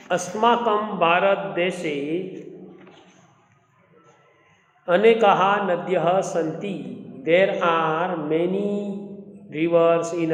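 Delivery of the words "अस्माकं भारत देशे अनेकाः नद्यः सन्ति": very fast Sanskrit reading, in two breaths; fast recitation. Shown as a demonstration. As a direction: read the line again, even quicker.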